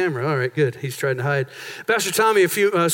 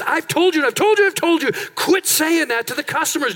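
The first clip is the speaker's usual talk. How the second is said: exasperated scolding; 6 semitones higher than usual. Retold or imitated. Store owner scolding his rude parrot, exasperated. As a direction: scold the parrot like you've told it a hundred times.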